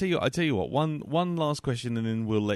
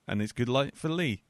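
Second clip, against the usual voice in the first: talking with a pen in mouth; pen in teeth. Real, not acted. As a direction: say it around a pen in your teeth. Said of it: "never try and finish a podcast with a, with a pen in your mouth".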